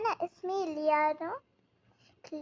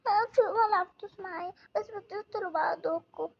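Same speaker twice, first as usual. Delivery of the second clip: crying; 3 semitones higher than usual. Acted. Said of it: "تبكي ليه يا سارة؟".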